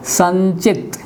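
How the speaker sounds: संचित said with the nasal as n before च; pronounced sanchit. Shown as a demonstration. Teacher demonstrating the anusvara before च to the class. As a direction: say संचित as san-chit. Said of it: "उच्चारित हुआ".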